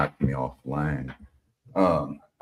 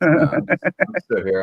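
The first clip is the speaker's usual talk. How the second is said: raised, much higher, insistent repeat; louder repeat; 14 semitones higher, 10 dB louder than usual. Real, not acted. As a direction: say it again so they hear. Repeating an answer nobody heard.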